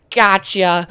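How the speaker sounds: spring the trap with a punchy, acted cry; triumphant exclamation. Superman jumps up at Batman, mock triumphant.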